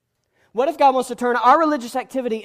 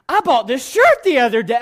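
much louder, booming small talk; loud preacher voice; 2 semitones higher, 11 dB louder than usual. Shown as a demonstration. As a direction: boom ordinary chat at the wife like a sermon. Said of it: "if I talked like this to Allison".

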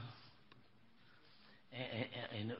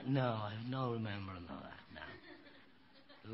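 put-on child's answer; 3 dB quieter, slower than usual. Grandchild answering grandfather's question.

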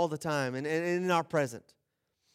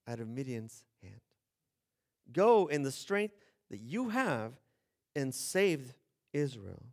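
solemn commission; 2 semitones lower than usual. Retold or imitated. Angel commissions Gideon.

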